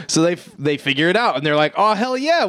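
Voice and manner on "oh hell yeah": high-pitched imitated cheer; hammed-up excited triumph; mock elation. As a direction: act out a thrilled cop, voice up high. Cops thrilled with their arrest.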